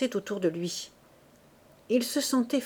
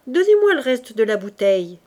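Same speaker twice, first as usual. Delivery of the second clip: louder request; 7 dB louder than usual. Acted. Fabrice buying the bottle.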